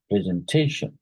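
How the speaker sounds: "presentation" with weight on TA; stress on penultimate syllable. Shown as a demonstration. Teacher confirming the penultimate syllable, stressed TA in "presentation". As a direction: lean on the TA in "presentation". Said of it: "so penultimate syllable".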